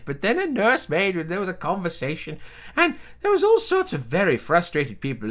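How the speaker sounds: lightly voiced rambling old relative; elderly relative voice. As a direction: tell it like a doddering old aunt. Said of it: "this is a voice I'm actually comfortable with".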